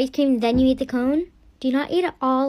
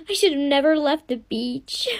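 sobbing regret. Acted. Girl in labor regrets leaving.

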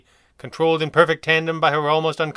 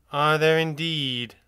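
displeased; 3 semitones higher, slower than usual. Acted. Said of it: "sounded genuinely unhappy now".

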